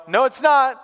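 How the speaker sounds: high, loud kitchen comeback; shouted contradiction. Retold or imitated. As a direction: yell back in mock protest. Imitated shouted reply from kitchen.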